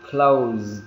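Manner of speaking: "closed" drawn out, ending in D; final D sound. Shown as a demonstration. Teacher showing learners how -ed reads, final D sound. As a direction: say "closed" slowly with a voiced ending. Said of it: "Ending sound nó là âm D".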